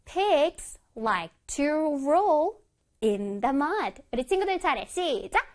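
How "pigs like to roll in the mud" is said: one word at a time with pauses; slow model reading. Shown as a demonstration. Teacher reading an example for children, word by word. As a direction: space out every word clearly. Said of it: "다시 한번 읽어볼게요".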